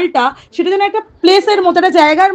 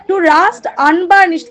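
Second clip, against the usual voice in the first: slow poem recitation; much slower than usual. Shown as a demonstration.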